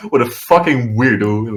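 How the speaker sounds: loud, derisive laugh into the jeer; scornful mock heckling. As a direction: imitate a crowd scoffing at an oddball. Mocking crowd voiced in retelling.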